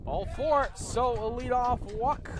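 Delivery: excited call. Real, not acted. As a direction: call the walk with a lift. Play-by-play call of a walk.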